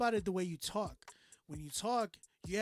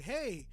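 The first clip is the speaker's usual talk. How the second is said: HEY with a swooping contour; animated, stretched "Hey"; dynamic greeting; 2 semitones higher than usual. Shown as a demonstration. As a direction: give "Hey" lively inflection. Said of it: "you hear dynamics".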